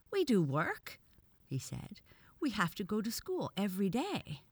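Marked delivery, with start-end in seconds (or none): 0.1-1.0 loud, high-pitched protest; eager shout. A narrator's reading. Bobby protests to the professor, shouting eagerly. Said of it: "Bobby fairly shouted in his eagerness to be heard". 2.4-4.4 put-on high, eager boy's protest; eager shout. A narrator's reading. Bobby defends boys' usefulness, eagerly raising his voice. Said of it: "Bobby fairly shouted in his eagerness to be heard".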